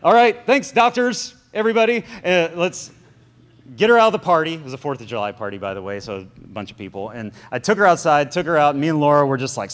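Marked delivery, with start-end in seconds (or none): 0.0-4.5 sarcastic thanks. Retold or imitated. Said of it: "I'm like".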